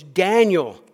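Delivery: loud, pleading cry of a name; anguished call. Acted. King calling to Daniel in the den, anguished cry. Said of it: "called to Daniel in an anguished voice".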